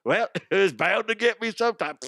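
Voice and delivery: high, laughing shrug of a falling climber; laughing resignation. Retold or imitated. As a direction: laugh off your own doom. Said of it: "you're like".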